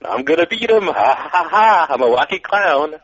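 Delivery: lightly voiced cackling clown; goofy high villain clown voice; silly clown. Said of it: "and Doink's like".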